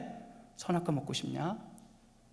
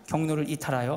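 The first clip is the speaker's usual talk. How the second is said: navigation voice; 4 dB louder than usual. Retold or imitated. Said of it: "내비게이션 저를 막 혼내는 거예요".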